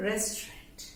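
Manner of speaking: रेस्टोरेंट whispered as rest-rant; रेस्टोरेंट breathed softly, middle unstressed; रेस्टोरेंट, whispered and clipped; whispered restaurant. Shown as a demonstration. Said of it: "बिल्कुल stress नहीं करना है".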